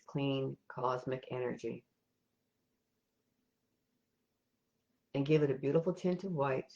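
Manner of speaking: calm, even meditation guide with long pauses; guided meditation. Real, not acted. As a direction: lead them gently step by step, leaving silences between instructions.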